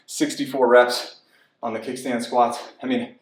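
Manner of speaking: out of breath between sets. Real, not acted. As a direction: talk while catching your breath. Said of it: "I'm already huffing and puffing".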